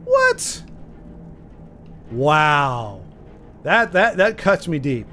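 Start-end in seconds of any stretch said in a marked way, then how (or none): 0.0-3.0 shocked. Real, not acted. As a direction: squeak out a stunned What?. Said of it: "Russian Dracula parody?".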